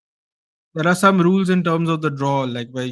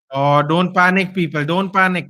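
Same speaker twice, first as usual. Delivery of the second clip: urging calm; 4 semitones higher, 5 dB louder than usual. Real, not acted. Fan watching match, urging calm.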